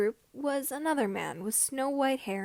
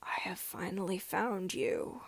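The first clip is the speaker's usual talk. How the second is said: low breathy menacing whisper; hoarse whisper for Vader; 4 semitones lower, 5 dB quieter than usual. Acted. Vader finds Kenobi at last, low hushed menace. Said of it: "Vader's voice was deep, mechanic".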